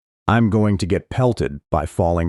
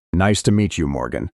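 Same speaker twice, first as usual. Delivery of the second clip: put-on a boy's half-hearted Morgan Freeman American accent; funny Morgan Freeman accent. Boy greeting new girl in a bad American accent. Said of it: "he says in a funny accent".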